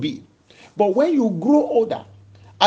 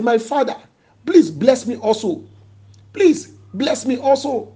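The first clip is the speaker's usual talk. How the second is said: mildly acted plea, building higher; retold crying plea; 3 semitones higher, 3 dB louder than usual. Esau begging his father for a blessing, pleading. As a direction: beg with a touch of anguish. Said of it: "he cried to the father".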